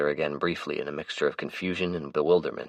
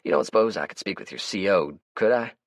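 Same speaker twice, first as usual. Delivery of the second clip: higher, brighter character voice; Melvin's voice; 4 semitones higher than usual. Acted. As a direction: play the chatty, easygoing Melvin. Melvin voices his lines.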